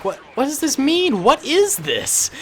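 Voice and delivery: high-pitched mock bewilderment; put-on confusion, voice jumping up high; bewildered clones. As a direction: act out baffled troops demanding answers. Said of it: "and they're like".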